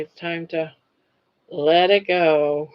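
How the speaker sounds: drowsy, slow and sleepy; nodding off. Real, not acted. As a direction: drag it out half asleep. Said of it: "I'm falling asleep".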